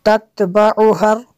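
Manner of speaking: "तत्बउहर" with ha running straight into r; joined ha and ra. Shown as a demonstration. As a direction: chant "तत्बउहर" as one joined word, closing on the r. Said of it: "हा को रा के साथ मिलाना है".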